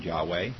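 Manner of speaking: Yahweh said YAH-way; variant pronunciation. Shown as a demonstration. Teacher listing possible pronunciations, Yahweh as YAH-way. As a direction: say Yahweh with a w and "way" ending. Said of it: "however it's supposed to pronounce".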